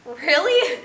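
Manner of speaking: breathless whisper; whispered disbelief. Acted. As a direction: hiss it under your breath. Reacts to the will.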